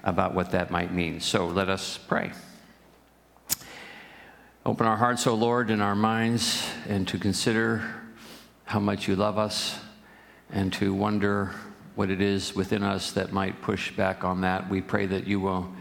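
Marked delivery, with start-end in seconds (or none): 4.6-15.7 measured, unhurried praying voice with pauses; congregational prayer. Real, not acted. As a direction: pray aloud in short, spaced phrases.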